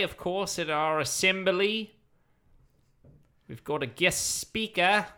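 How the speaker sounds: put-on light Australian principal accent; a mild Aussie twang, crude headmaster. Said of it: "Oh, Murray became Australian".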